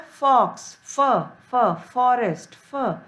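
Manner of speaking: फ split off and said alone, then the word; consonant sound demo. Shown as a demonstration. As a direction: isolate the फ of फॉरेस्ट. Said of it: "एफ का pronunciation क्या होता है". (फ की ध्वनि अलग करके)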